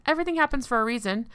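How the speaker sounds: quick, high mocking singsong; sarcastic. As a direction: parrot the empty cliché. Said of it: "People say that all the time".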